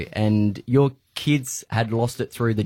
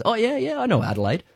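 put-on French accent; 12 semitones higher than usual. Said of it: "he had a French accent".

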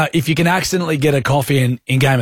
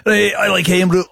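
shouting; 4 semitones higher than usual. Pretend. Jokey shout at the tasting.

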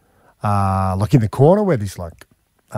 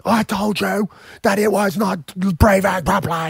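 slower, higher mock nagging wife voice; a teasing take on his partner's scolding, higher and slowed; 8 semitones higher than usual. Retelling his wife's panic as the pet bird dies, mock nagging voice. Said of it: "Kara's like".

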